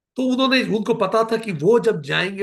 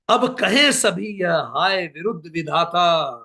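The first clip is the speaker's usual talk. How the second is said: slow, impassioned declamation; stately Hindi verse reading; poetic recitation; slower than usual. Acted. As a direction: declaim each line with weight. Recites Saket poem.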